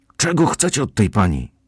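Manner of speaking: loud, urgent, demanding, challenging call. Reading the narrator's shout at men confronting a woman, shouting. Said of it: "Krzyknąłem".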